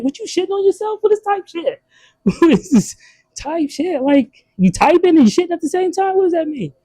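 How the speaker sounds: high, incredulous questioning; mock confusion. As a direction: act baffled by the slang. Mocking confused reaction to slang.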